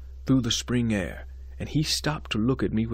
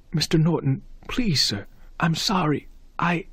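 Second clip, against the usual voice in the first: pleading; 4 semitones higher than usual. Acted. Student pleads with angry trustee.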